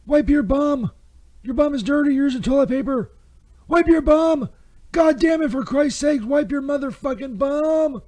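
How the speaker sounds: rising into an angry rant; amped-up ranting. Acted. Ad host yelling at listeners to wipe, escalating anger. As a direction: build from bossy to furious. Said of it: "Got a little amped up there".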